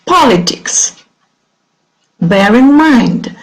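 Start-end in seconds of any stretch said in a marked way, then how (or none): 0.1-1.0 "Politics" with POL higher and stressed; stress on first syllable. Shown as a demonstration. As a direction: punch the first syllable of "Politics", let the rest fall. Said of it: "the stress is on the first syllable".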